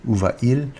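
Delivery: où va-il repeated with no T, "oo va-eel"; vowels clashing without T. Shown as a demonstration. Teacher repeating the awkward form, où va-il without the T. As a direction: say va then il with nothing between. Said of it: "it wouldn't flow well".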